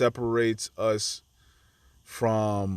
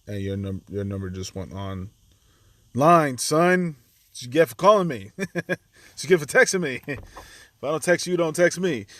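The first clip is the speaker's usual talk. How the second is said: mock scolding; 3 semitones higher than usual. Real, not acted. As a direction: tease the caller for interrupting. Scolding someone on the phone.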